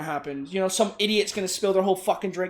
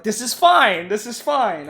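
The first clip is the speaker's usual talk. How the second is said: contained scream, slightly raised; mock inner scream; 4 dB louder, slower than usual. Worker fuming after mopping the floor, mildly mock screaming. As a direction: act out screaming inside while claiming all is well. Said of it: "I'm just screaming in my head".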